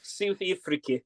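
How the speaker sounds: a brief half-hearted Johannesburg accent on the place names. Shown as a demonstration. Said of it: "the only thing I can say with a Johannesburg accent".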